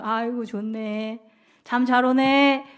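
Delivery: slow, relaxed and satisfied; contented sigh. Retold or imitated. Jonah resting in the shade, slow and contented. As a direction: drawl it lazily in the cool shade.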